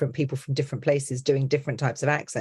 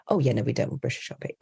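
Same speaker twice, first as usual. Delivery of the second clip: hasty backtracking; 4 semitones lower, faster than usual. Retold or imitated. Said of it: "And they'll be like".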